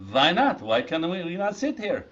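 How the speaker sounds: a hint of a protesting French teenager; French teen accent. French teenage snacks arguing with the waiter, light French accent. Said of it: "two French teenage snacks".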